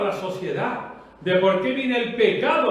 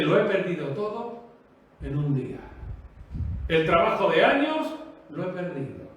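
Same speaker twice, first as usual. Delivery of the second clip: mild retold lament; 3 semitones lower than usual. Preacher quoting people who lost everything, mildly lamenting. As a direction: lightly voice their loss, letting it fade. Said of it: "la gente se lamenta".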